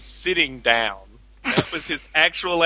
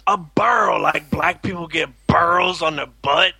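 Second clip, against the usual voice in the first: Fat Albert voice; 3 semitones higher than usual. Retold or imitated. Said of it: "adopted Fat Albert's voice".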